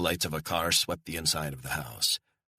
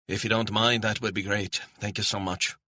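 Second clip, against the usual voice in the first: lightly voiced grateful woman, higher pitch; stranded Scottish woman, grateful; 5 semitones higher than usual. Woman accepts offer of a cab, grateful Scottish voice.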